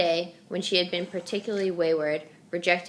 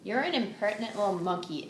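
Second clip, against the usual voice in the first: surprised exclaim; 4 semitones higher than usual. Acted. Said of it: "exclaimed Missus Linton in surprise".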